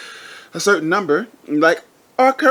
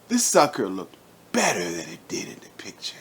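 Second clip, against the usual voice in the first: whispering; 8 semitones lower, 5 dB quieter, faster than usual. Acted. Whispered aside about the gun.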